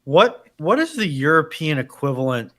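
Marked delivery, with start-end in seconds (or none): none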